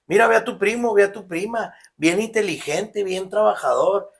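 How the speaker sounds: imitating a parent who scolds by comparison; mock nagging parent. Parents comparing him to his hardworking cousins, mock nagging.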